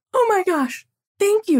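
high-pitched, overwhelmed thanks; gushing gratitude. Retold or imitated. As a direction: gush it, voice leaping way up. Retold gushing thanks to clerk.

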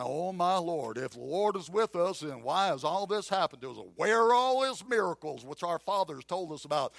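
lightly voiced Southern accent; Gideon's lament in a mild Southern accent. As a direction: complain with a hint of Southern accent. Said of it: "with a southern accent".

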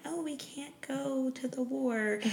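high, soft, slow whiny mock; mocking snooty voice. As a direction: put on a prissy privileged voice. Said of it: "being like".

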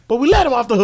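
mock press-conference meltdown; imitating Dennis Green. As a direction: yell it like a furious coach. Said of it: "best soundbite".

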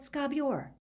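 roared. Acted. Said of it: "he roared".

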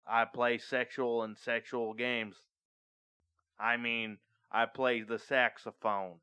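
slightly put-on Alabama drawl, measured pace; lightly played Alabama accent. Joking to friends about the saxophone, mild Alabama accent. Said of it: "You just had an Alabama accent".

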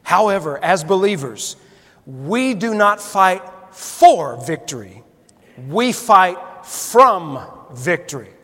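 slow, deliberate reading of a favorite quote; reading aloud. Shown as a demonstration. Preacher reading his favorite line to the congregation, slow and deliberate. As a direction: read it out slowly, savoring each phrase. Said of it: "Listen to this".

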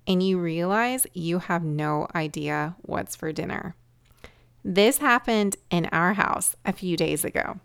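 measured storytelling read; projected, deliberate podcast opener; scripted intro narration. Acted.

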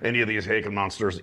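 lightly put-on Scottish accent. Actor replaying his first big scene, light Scottish accent. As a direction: slip into a bit of Scots for the line. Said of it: "I worked on my Scottish accent".

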